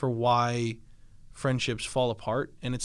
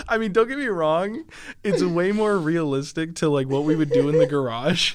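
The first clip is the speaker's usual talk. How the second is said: laughing; 6 semitones higher, 7 dB louder than usual. Real, not acted. Still laughing, loud.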